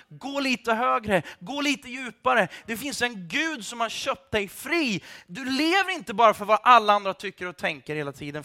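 building to an impassioned near-shout; worked-up shouting. Real, not acted. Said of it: "Förlåt att jag skriker".

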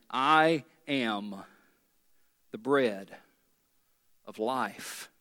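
low and soft, slowing to a whisper-like close; hushed declaration. Acted. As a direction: lay it down gently and low. Quoting Jesus again.

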